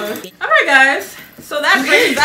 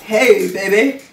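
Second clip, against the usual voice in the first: crooning rock-and-roll idol, a little low; a famous singer; 4 semitones lower, slower than usual. Acted. Player flirting as the singer to be guessed, an impression of a famous singer. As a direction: drop into a smooth singer's come-on. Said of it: "Elvis Presley".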